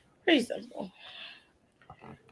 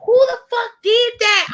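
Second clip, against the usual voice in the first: mock outrage; 12 semitones higher, 3 dB louder than usual. Real, not acted.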